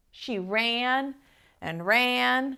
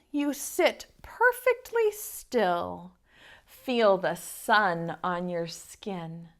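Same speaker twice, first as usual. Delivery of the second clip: slow, soothing lesson in stillness; calm lizard; 3 semitones lower than usual. Acted. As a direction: talk her into calm like a guide.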